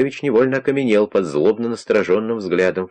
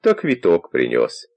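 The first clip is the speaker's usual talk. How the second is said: put-on quavering old man voice. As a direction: play a doddering old man at the door. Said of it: "тем же тоном продолжал Костя".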